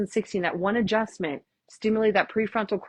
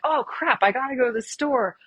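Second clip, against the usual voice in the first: higher, rushed mock panic as errands flood in; frantic racing thoughts; 5 semitones higher than usual. Yoga class, mind wandering to errands: mock frantic. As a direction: play the mind scattering in a half-joking fluster. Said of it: "And you're like".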